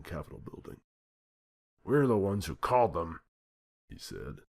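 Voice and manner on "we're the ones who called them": loud, high indignant outburst; the president fuming at his cabinet; angry president. A narrator's reading. President complaining to cabinet, loud and indignant.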